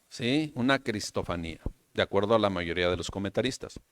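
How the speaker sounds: usual speaking voice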